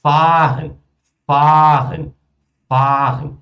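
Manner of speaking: "Fahren" with a long, held first vowel. Shown as a demonstration. Teacher demonstrates long vowels to students, "Fahren" with drawn-out a. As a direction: stretch the "a" of "Fahren", loud and sustained. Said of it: "Ou se ela for longa".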